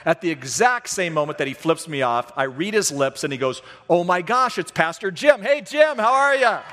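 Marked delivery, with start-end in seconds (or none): 3.9-6.6 high, loud sudden friendly switch; high, loud, overly friendly hello; surprised cheerful greeting. Retold or imitated. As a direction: go from rage to bright fake cheer. Angry man suddenly recognizes pastor.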